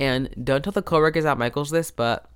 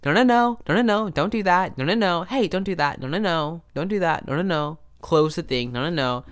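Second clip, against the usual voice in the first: a mock of her no-no-no, winding down; an imitation of the coworker that slides back to normal; imitating the coworker; 3 semitones higher than usual. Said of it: "the coworker was like".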